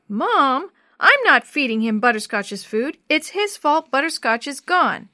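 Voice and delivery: loud, high, upset refusal; horrified protest. Acted. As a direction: protest loudly, near tears of outrage. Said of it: "Jenny was horrified".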